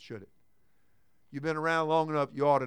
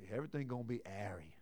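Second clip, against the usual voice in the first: put-on Jamaican accent; 8 semitones lower, 16 dB quieter, faster than usual. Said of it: "the Jamaicans say".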